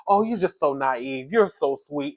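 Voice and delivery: slowed, patronizing "so naive"; imitating a husband talking down to his wife; mock condescension. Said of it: "passive-aggressive and disrespectful".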